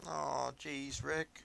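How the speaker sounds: put-on high nervous stammering teen; squeaky anxious Morty voice; Morty impression. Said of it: "That's how he talks".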